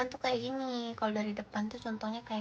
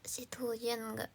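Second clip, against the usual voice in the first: whisper; 8 dB quieter than usual. Real, not acted. Whispered question.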